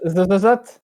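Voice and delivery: trying out a heavy lisp. Shown as a demonstration. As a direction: lisp hard on every z. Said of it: "ce serait mieux si tu zozotais".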